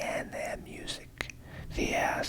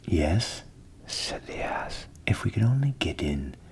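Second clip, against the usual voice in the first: the ass, cheerful and louder; jolly donkey offering a plan; hearty donkey; 4 dB louder than usual. A narrator's reading. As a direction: invite the cat along warmly. Ass agrees.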